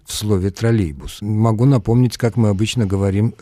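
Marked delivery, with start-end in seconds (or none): 0.5-1.2 троллейбус with the й present, lower; full-style pronunciation. Shown as a demonstration. Expert pointing to the sound й, troллейбус said fully. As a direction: say троллейбус keeping the й before "бус".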